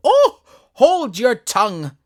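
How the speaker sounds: high, loud, slow rebuke; angry cry. A narrator's reading. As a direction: tiger lily silencing a rude violet. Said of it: "cried the tiger lily".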